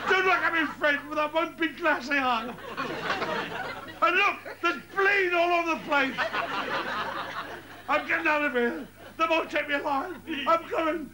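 high-pitched frantic cries; hammed-up panic. Acted panicked flight from scene.

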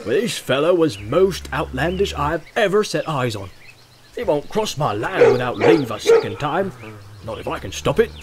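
rustic farmer grumbling about a stranger; indignant farmer. Acted. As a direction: lay down the law about your land.

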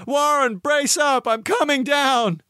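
high, urgent call down to a friend; high-pitched, determined holler; resolute shout. Acted. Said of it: "formed and shouted a resolution".

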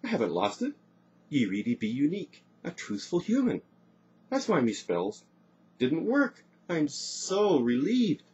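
high, elated exclamations; rejoice, stretching out the last words; overjoyed, soaring pitch; joyful relief. A narrator's reading. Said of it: "leaping up with joy".

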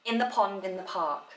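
"In the pond, in the park" as one self-contained phrase; single sense group. Shown as a demonstration. Teacher isolating a phrase for students, single sense group. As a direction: lift "In the pond", let "in the park" fall to a finish. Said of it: "makes sense on its own".

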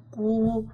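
"قو" modelled as an isolated qoo; qaf with damma. Shown as a demonstration. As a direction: sound out "قو" as one syllable, qoo. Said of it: "قاف ضمة".

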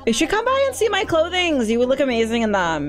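lightly voiced bubbly fan meeting someone new; eager, chatty greeting; gushing fashion shop owner. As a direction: gush excitedly, lightly in character.

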